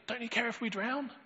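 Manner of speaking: high, pleading cry of alarm; desperate plea. Acted. Disciples crying out to Jesus, high and desperate. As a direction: beg him in fright.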